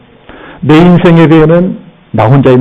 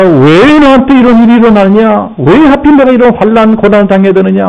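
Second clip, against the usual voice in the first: grumbling complaint; 7 semitones higher than usual. Retold or imitated. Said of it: "원망, 불평을 먼저 합니다".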